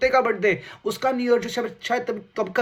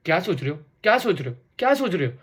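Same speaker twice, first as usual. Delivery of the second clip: pestering girlfriend impression; faster than usual. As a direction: pester him, pitching up with every repeat. Imitates girlfriend's repeated pestering question.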